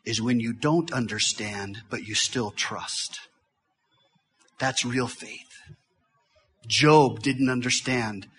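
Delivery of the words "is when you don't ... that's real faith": much softer and slowed, letting it sink in; soft emphasis. Real, not acted. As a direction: hush the room on the key point. Sermon climax softened.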